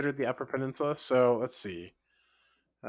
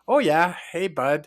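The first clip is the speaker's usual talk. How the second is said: imitated UP greeting, louder opening; Upper Peninsula accent; 2 semitones higher, 4 dB louder than usual. Fan of the accent showing what's great to listen to, UP accent. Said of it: "like, listening to him".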